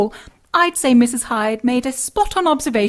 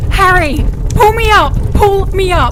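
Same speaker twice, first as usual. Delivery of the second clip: desperate cry for help; 4 semitones higher, 4 dB louder than usual. Acted. Dangling over fire, calling for help.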